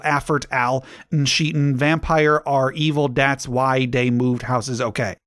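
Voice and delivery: petulant phonetic reading of misspellings; author's note voice. Acted.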